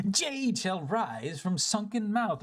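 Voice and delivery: slow chanted riddle; mystic recitation. Acted. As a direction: intone it like an old legend. Reciting the fisherman's legend.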